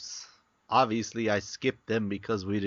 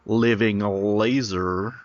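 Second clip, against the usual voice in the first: dramatic announcer; 3 semitones lower, 4 dB louder, slower than usual. Pretend. Repeating name dramatically.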